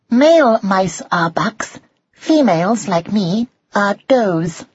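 high-pitched, instructive mouse voice; mother mouse Drusilla. A narrator's reading. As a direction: explain it patiently in a high character voice.

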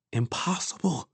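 high, soft thought; small, high voice in the head; disbelieving inner voice. A narrator's reading. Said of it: "said something in his own head".

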